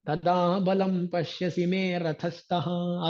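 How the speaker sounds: verse recitation. Acted. Repeats verse line chanted.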